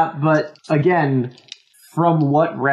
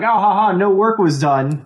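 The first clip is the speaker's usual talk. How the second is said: pedantic teacher; 4 semitones higher than usual. Retold or imitated. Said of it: "teacher who's trying to be pedantic".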